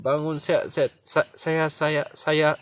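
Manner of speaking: stuck repeating saya; stammering on the first word; real stammer. Real, not acted. The host actually stammers while greeting viewers live. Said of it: "kenapa pandai gagapnya".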